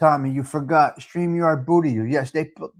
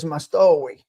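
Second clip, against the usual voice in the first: imitated Sicilian accent; Giacomo; 3 semitones lower than usual. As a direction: put a Sicilian accent on "Mastowi". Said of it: "in his Sicilian accent".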